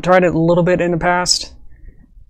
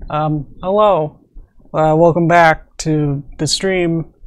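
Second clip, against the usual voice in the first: projecting a bit; semi-outside voice; slower than usual. Real, not acted. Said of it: "semi-outside voice".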